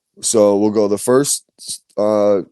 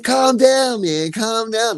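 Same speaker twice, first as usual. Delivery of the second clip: higher hammed-up buddy voice; mock calm down; 13 semitones higher, much slower than usual. Teammate retold telling the ranter to relax, mock. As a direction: imitate the teammate soothing him.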